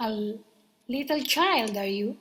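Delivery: frightened monkey. Acted. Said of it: "began to shake all over".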